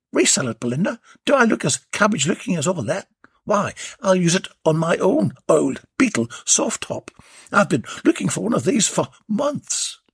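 high, quick cheeky tradesman; mock-affronted banter; cheeky workman refusing to resell; Warren's voice.

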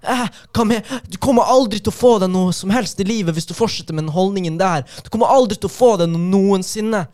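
high, loud scolding dialect impression; full feminist på dialekt. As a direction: imitate a drunk woman angrily telling him off. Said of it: "det var dialekt på dama i hvert fall". (høylytt, sur herming av dame på dialekt)

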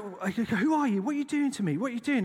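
high, loud frightened questions; panicked plea. Retold or imitated. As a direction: cry out in terror while being carried. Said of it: "he's like".

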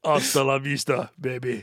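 put-on low-key Arnold Terminator accent; understated Arnold-style accent; Arnold Schwarzenegger accent. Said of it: "it's from Terminator two".

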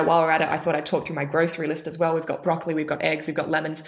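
boring monotone. Shown as a demonstration. Coach demonstrating a boring monotone to the audience, flat drone. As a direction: drone through a grocery list with no lift. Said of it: "How unbelievably boring".

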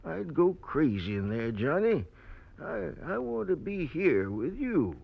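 put-on frail old man pleading. Sick old convict refusing hospital.

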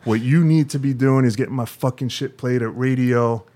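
imitating an angry rant; a mild retold blow-up, lion let loose; angry tirade. Puffy ranting at the label staff, retold mildly. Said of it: "raise his intonation, and his energy came up".

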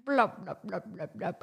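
bubbly gurgles, then a creature announcing itself; gurgling fish man croak. Pretend. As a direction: gurgle like a monster rising from butter. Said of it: "I'm the buttersquatch".

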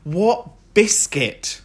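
slow, drawn-out disbelief; what biscuit, really?; incredulous. Acted. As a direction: stretch it out like you can't believe it. Incredulous echo of own question.

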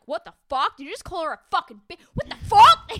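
high, loud, hammed-up outrage; escalating mock shouts, cracking into laughter; mock furious outburst. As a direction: imitate an outraged crowd, building to a shriek. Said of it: "It's so mad".

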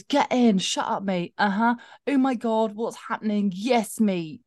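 hammed-up Bristolian character voice; Bristolian accent. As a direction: read it aloud in a playful Bristol accent. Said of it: "reading it in a Bristolian accent".

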